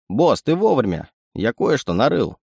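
a sly little animal sidekick; sly chittering raccoon. Acted. Raccoon speaks.

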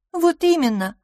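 высокое торжествующее «вот именно»; поставить точку в споре; triumphant. A narrator's reading. Triumphant retort. (торжествующе)

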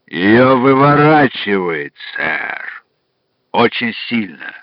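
put-on slow, heavy Irish accent. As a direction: speak in a thick Irish accent. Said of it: "сказал с сильнейшим ирландским акцентом".

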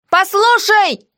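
high yell of hey listen; shouted from below; shouting. A narrator's reading. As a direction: call out sharply. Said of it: "заорала я".

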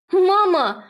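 high, loud shout of Mama; a daughter calling out to her mother in alarm; desperate cry out. Acted. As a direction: yell it high and sharp. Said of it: "выкрикивает Зела".

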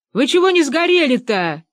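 calling up. A narrator's reading. Benedikt calling up to them.

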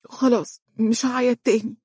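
put-on high, girlish promise; innocent. A narrator's reading. Wife promising to stop crying, high and innocent. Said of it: "وهي تقول ببراءة".

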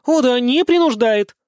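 high, loud, slow sarcastic retort; angry sarcasm. A narrator's reading. Daughter hurling sarcasm at her father, angry and loud. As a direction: spit the words back, furious. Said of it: "Алиса тоже разозлилась".

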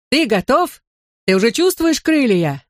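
high, eager questioning call. A narrator's reading. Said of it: "крикнул я".

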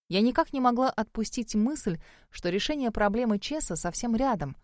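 usual speaking voice

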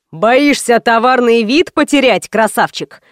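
ordinary delivery

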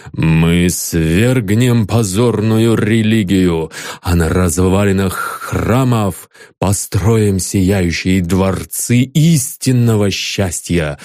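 solemn messenger. Acted. The messenger proclaims.

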